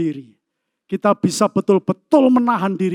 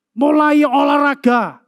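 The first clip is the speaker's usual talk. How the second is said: emphatic shout; 3 semitones higher, slower than usual. Real, not acted. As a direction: shout it slowly to the congregation. Preacher urging workout. (seruan keras dan lambat)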